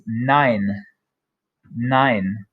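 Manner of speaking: nein said slowly like English nine; slow careful German nein; German model word. Shown as a demonstration. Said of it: "our word for no, which is".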